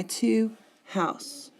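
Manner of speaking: "two house" as two separate slow beats; syllable-pair scansion. Shown as a demonstration. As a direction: break off "house" as its own foot. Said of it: "I'm gonna be counting two syllables and break".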